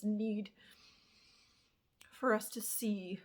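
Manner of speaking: breathy emotional whisper. Real, not acted. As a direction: let it drop to a whisper. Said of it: "the moon really plays on my emotions".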